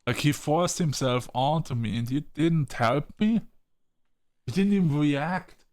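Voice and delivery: heated, rising rant at a friend; angry scolding. Real, not acted. Furious at Frank for not stepping in, angry. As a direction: tear into him for not helping. Player berating Frank's game choice.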